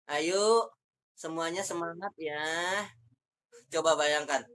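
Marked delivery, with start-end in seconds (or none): 0.1-2.4 half-hearted rallying call on a level tone; rally the class without conviction; nada lempeng. Shown as a demonstration. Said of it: "Tapi nadanya lempeng". (menyemangati dengan nada lempeng)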